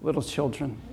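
tender, hushed quote; tender consoling. Retold or imitated. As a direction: console them tenderly, softly. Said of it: "Christ tenderly consoles those whom he loves".

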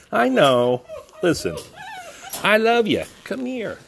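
high, loud doting dog voice; excited high-pitched affection; gushing pet talk. Real, not acted. Gushing love at the new dog.

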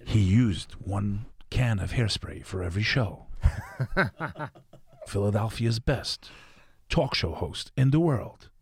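slow, grand host introduction; talk show announcer. Pretend. Introducing Tommy as Philadelphia's best host, mock announcer. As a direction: drag out the intro like a hammed-up announcer. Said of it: "Pretty good".

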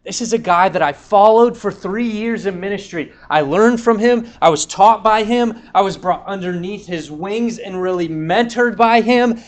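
Peter's heart crying out in remorse; anguished inner voice. Retold or imitated. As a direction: pour out Peter's regret, rising. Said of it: "imagine his heart going".

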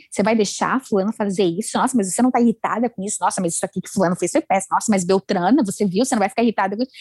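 ego's nagging voice. Retold or imitated. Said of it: "ele fala aqui pra mim".

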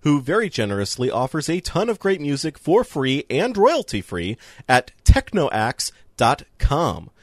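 measured podcast outro read; credits read. Acted. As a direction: read the closing credits slowly and deliberately.

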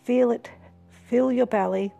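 calm hypnotic guiding voice; guided meditation. Acted. Reads meditation script.

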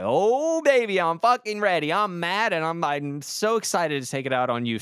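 high, loud mock-eager threat; mocking someone who snaps back when called out, loud and eager; reactive aggressor. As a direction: ham up a guy itching for a fight. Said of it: "they're like".

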